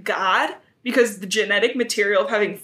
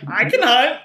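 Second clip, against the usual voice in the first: offended white cat; 2 semitones higher, 5 dB louder than usual. Retold or imitated.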